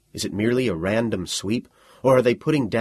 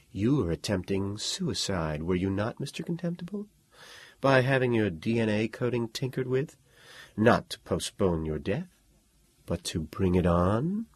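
husky sexy voice; 5 dB quieter than usual. Acted. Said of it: "in a husky, sexy voice".

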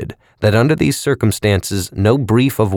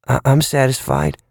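dim-witted voice; 5 semitones higher than usual. A narrator's reading. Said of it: "in his stupid way".

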